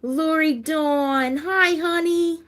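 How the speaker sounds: slow high sing-song "Hi, honey"; excited greeting. Real, not acted. Host welcoming viewer Lori Dawn in a slow, high, loud sing-song. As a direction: stretch the name out in a delighted welcome.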